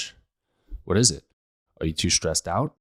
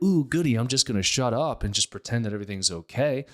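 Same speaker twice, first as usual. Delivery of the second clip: mock delight; 3 semitones higher than usual. Mocking a patient who plays along, sarcastic glee. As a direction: play a fake cheerful pushover. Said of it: "I'm not like".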